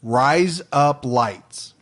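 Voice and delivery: "Rise up lights" spaced out slowly, word by word; slow model phrase. Shown as a demonstration. Host teaching co-host an accent trick, slow "Rise up lights". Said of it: "say these words for me like I say 'em".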